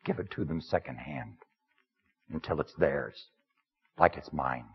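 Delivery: lightly voiced humble outsider, plain-spoken; first-person sermon character. Preacher speaking to the congregation as the Samaritan woman's man, lightly voiced. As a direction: step into the role of the woman's man, understated.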